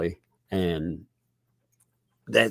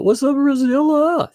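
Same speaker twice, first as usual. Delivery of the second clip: excited greeting; 6 dB louder than usual. Real, not acted. Greeting viewer by name.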